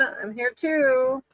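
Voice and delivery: drawn-out, very slow English; slowly translating for the viewers; slow translation. Pretend. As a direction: spell out the translation. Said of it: "Estoy aquí también".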